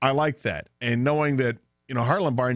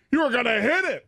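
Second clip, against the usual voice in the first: retold accusation; 12 semitones higher than usual. Retold dad argues with son.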